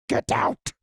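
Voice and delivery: raspy whispered demon hiss; demonic whisper. Retold or imitated. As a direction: breathe it out like a demon. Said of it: "demonic voice is like".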